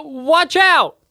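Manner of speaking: high, urgent shout; shouted warning. Acted. Player warning Kyle of falling gunk, urgent shout. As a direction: yell a sudden warning.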